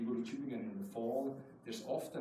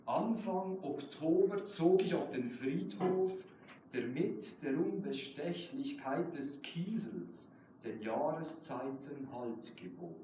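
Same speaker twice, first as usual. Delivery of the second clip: measured German poetry recital, slow on key lines; slow reading of a German poem; slower than usual. Acted. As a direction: read it like your own poem at a reading. Poet reads own German poem.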